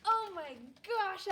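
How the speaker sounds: thrilled to find a favorite book; delighted surprise. Real, not acted. Teacher unwrapping a favorite book for her class, delighted.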